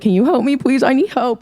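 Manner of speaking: put-on a light, whiny baby-talk plea. Shown as a demonstration. Youth leader acting out asking Pastor Alex for help in baby voice. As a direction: ask for help like a small child. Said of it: "See, just like that".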